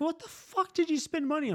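squeaky high-pitched angry wife; shrill-voiced mock outrage from the wife. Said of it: "she's like".

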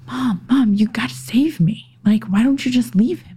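high, hushed pleading whisper; daughter's plea. Retold or imitated. Teen daughter begging mom at night, high hushed plea. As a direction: beg like a scared teen. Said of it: "she would be like".

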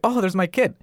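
chuckling through a high, casual line; laughing quote. Retold or imitated. Friend retelling the chill mom, laughing. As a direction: laugh while quoting the unbothered mom.

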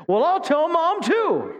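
put-on high, slow whiny kid voice; tattling child. Pastor as a kid tattling back, high whiny voice. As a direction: whine back like a squabbling toddler.

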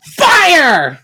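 high, loud barked order; villain queen commanding fire, loud and disgusted. Acted. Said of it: "With disgust".

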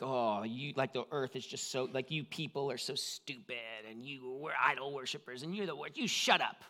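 lightly voiced scornful accuser, mild sneer; mock a condemning God, half-hearted. Shown as a demonstration. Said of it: "like a condemning voice".

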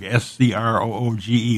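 Scroog closed on a hard g; Scroog, hard g in place of the j sound; hard G pronunciation. Shown as a demonstration. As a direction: say Scroog to rhyme with fugue. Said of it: "was to be pronounced".

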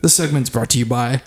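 deliberate ad-read delivery, mock serious; mock sponsor read. Host reads a joke sponsor spot to co-hosts, mock announcer.

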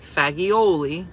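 fagioli in full, fa-jee-OH-lee; slow fagioli with the final -ee; standard pronunciation. Shown as a demonstration. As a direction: draw out fagioli, every syllable sounded. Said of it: "Pasta fazool has an F in it".

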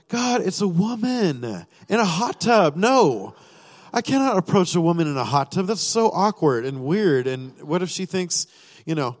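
pleading with God that this is too awkward; mock panic. Retelling his nervous prayer to God, in mock alarm.

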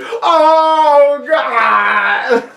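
high shouted mock alarm. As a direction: overplay a startled cry. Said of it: "he's like".

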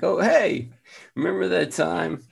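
casual bark turned into friendly words; chatting dog voice. Retold or imitated. Retelling a joke about dogs barking, lightly voiced dog. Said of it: "Why do dogs bark at three o'clock".

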